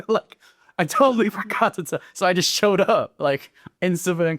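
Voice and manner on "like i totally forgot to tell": laughing. Real, not acted. Laughs at his own story.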